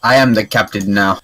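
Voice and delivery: bad put-on African accent. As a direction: deliver it in a clumsy African accent. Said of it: "That was the worst African accent".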